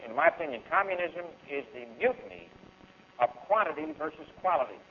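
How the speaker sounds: slow and deliberate, each word weighed; said slowly. Shown as a demonstration. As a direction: lay it out slowly so the crowd can follow. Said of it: "I'm gonna say this slow".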